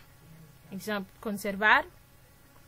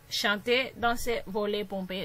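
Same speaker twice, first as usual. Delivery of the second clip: "chante, danse, vole, pompe", each stressed on its last vowel; stress on final vowel; 3 semitones lower, 5 dB quieter, slower than usual. Shown as a demonstration. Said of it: "toujou tonbe sou dènye vwayèl la". (aksan sou dènye vwayèl "chante, danse, vole, pompe")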